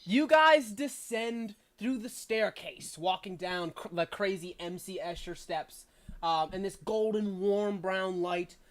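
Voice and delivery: game master describing the stone hall; scene narration. A narrator's reading. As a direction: paint the hall for the players. GM scene setting.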